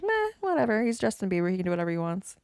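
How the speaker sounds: careless "meh", trailing into a whisper; dismissive shrug. Retold or imitated. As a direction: shrug it off, then drop to a whisper. People who don't care.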